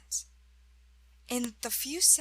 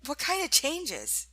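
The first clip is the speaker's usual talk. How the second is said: higher-pitched, puzzled demand for an explanation; sceptical questioning; 5 semitones higher, 4 dB louder than usual. A narrator's reading. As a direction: press for an answer, brow raised. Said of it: "Smith asked, raising a brow".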